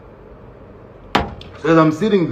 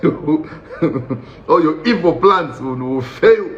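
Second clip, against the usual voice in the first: hammed-up prayer against an enemy; comic deliverance prayer; mock warfare prayer; 3 semitones higher than usual. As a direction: pray as if casting out evil, climbing higher. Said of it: "started praying against this man".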